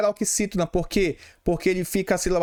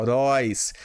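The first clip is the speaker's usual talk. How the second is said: "heróis" with its final syllable held out; stress on last syllable; 5 semitones lower than usual. Shown as a demonstration. Teacher showing pupils where the strong syllable is, stressed final syllable. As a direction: lean on the "róis" of "heróis". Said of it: "a sílaba forte é aqui".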